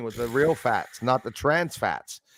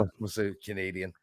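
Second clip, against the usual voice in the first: muttered aside; 7 semitones lower, 10 dB quieter than usual. Retold or imitated. Quoting himself at the dry ground.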